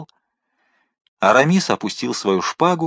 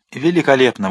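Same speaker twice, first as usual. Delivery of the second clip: a sharp, bitter exclamation; 2 semitones higher than usual. Acted. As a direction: fling it out sarcastically. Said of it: "воскликнул Д'Артаньян". (саркастическое восклицание)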